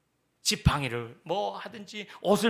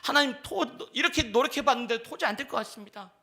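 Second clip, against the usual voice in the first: higher, pleading confession of failure; weary prayer; 5 semitones higher than usual. Shown as a demonstration. Believer confessing to God he can't go on, pleading. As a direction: admit you can't go on. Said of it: "그렇게 얘기하세요".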